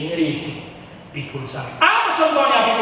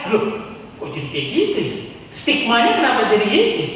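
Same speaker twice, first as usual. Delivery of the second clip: gossipy Jakarta voice; 4 semitones higher than usual. Retold or imitated. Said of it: "stigma pendapat orang di ibu kota".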